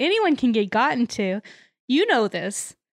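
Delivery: ominous, creepy, sinister, menacing tone. Recapping a TV episode, quoting a character's warning in a mock-sinister tone. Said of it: "very sinisterly".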